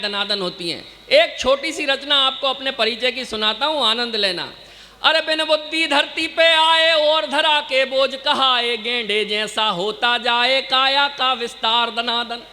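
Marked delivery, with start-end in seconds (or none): 5.0-12.4 slow, sing-song kavi sammelan recital; poem recitation. Acted. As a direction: roll the verses out to the crowd. Recites his own poem. (कवि सम्मेलन वाला काव्य-पाठ)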